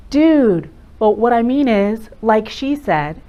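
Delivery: put-on loud, lazy teen filler; teenager voice. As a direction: toss it off like a teen. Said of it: "As a teenager, maybe".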